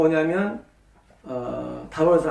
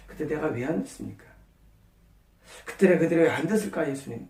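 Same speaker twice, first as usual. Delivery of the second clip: earnest question; 6 dB quieter than usual. Shown as a demonstration. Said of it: "하고 진지하게 물어봐야 됩니다".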